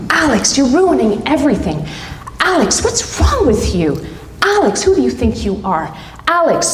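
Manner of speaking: mocking, rising inner critic; lightly voiced cruel inner critic; harsh inner voice. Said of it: "My voices in my head were so ruthless".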